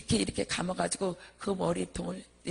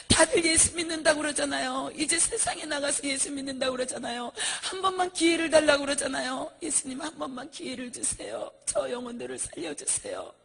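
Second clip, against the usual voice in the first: pleading; 4 semitones higher than usual. Retold or imitated. Begging Jesus to spare souls.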